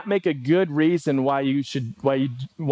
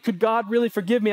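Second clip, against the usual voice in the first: higher, quick worried plea with a rise on really; fretful questioning, pitched up; anxious doubt; 5 semitones higher, faster than usual. Retold or imitated. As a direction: sound unsure you can be forgiven. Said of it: "We will continually question".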